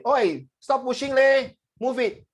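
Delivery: high, slow Singlish with leh. Shown as a demonstration. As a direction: drag out the leh like a local on the bus. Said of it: "more a Singlish".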